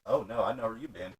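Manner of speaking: exaggerated recoil, exploding on "Jesus Christ"; mock horrified outburst. Acted disgusted reaction to braces story.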